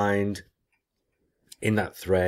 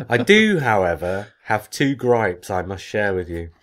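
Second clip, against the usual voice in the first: emphatic read-aloud, loud opening; reading listener email; 6 dB louder than usual. Acted. Host reads out a listener's gripes, emphatic read-aloud. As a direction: read it out like a formal complaint.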